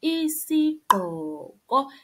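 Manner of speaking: Isigqoko with a clear click on gq; pronunciation demo. Shown as a demonstration. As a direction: slowly model Isigqoko, click and rise. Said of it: "a hat is isigqoko".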